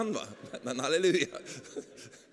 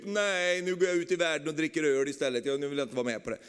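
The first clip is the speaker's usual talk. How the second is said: defiant; 6 dB louder, faster than usual. Acted. Defiant believer walking away.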